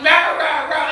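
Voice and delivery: mock monster roar; ogre roar. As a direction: growl it like an ogre. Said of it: "the ogre yelled out".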